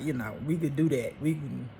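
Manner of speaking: ordinary talk, nothing marked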